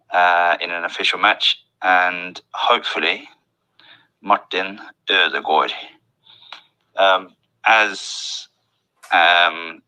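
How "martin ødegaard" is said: "Martin Ødegaard" slowly, with Norwegian Ø and O-like aa; careful native-style "Martin Ødegaard"; Norwegian pronunciation. Shown as a demonstration. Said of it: "have that sound in their name".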